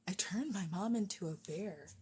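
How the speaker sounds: put-on tentative, soft try at a Scottish accent; attempted Scottish accent. Streamer tries a Brave line for viewers, tentative Scottish accent. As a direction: have an unsure go at Scottish, softly. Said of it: "Can I do a Scottish accent?".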